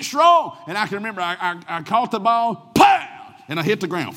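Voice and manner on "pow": high, loud impact pow; shouted pow as he's tackled. Retold or imitated. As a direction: bang out the hit. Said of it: "impact sound in story".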